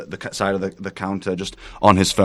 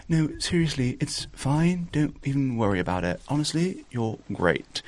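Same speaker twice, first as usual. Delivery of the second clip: reassuring Erica; 6 semitones higher, 6 dB quieter than usual. Acted. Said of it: "Erica goes".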